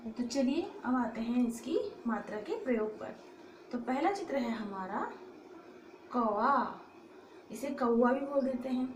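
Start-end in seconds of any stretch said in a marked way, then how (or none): none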